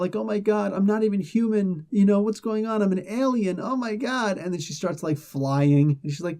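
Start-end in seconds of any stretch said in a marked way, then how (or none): 0.1-4.4 mock freaking out. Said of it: "she's freaking out".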